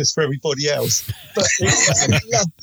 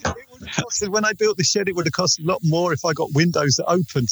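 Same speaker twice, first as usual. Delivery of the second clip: muffled, boxed-in sound; talking from inside a jar; faster than usual. Real, not acted. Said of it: "you sound like you're talking from inside a jar".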